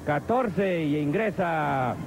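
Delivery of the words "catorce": live ringside play-by-play; wrestling commentator. Acted. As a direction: call the match as it happens.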